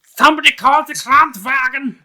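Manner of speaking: loud, high hammed-up cry for help; mock alarmed shout. Calling for a German ambulance, mock shout. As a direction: yell it out like a play emergency.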